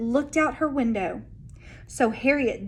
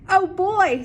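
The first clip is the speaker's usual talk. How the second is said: excited; 7 semitones higher, 5 dB louder than usual. Acted. Harriet's excited reaction.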